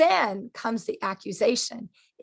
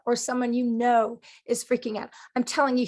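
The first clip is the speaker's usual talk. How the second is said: normal talking voice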